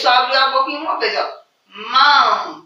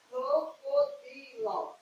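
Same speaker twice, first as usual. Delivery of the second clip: sing-song word example; 11 semitones higher, 14 dB quieter, slower than usual. Shown as a demonstration. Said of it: "quatro ou mais de quatro sílabas".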